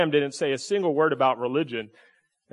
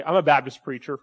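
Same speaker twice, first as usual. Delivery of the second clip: said with a chuckle; amused Baptist preacher reveal; laughing punchline. Shown as a demonstration. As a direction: deliver it as a laughing joke. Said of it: "if I really wanna be left alone".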